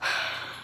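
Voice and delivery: heavy, voiceless sigh; exasperated sigh. Real, not acted. Venting about the wrong tea, exasperated sigh. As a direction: let out a fed-up breath.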